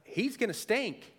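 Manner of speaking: a hint of a fretting sister; Martha. Martha warning Jesus about the tomb, lightly worried. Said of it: "Martha's going".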